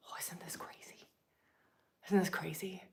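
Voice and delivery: unvoiced, hushed wonder; whispered amazement at the idea; awed whisper. Real, not acted. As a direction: marvel under your breath. Awed aside.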